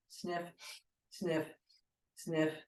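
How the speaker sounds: three quick sniffs through the nose; sharp sniffs in. Shown as a demonstration. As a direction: sniff the air in steps. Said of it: "three sniffs in".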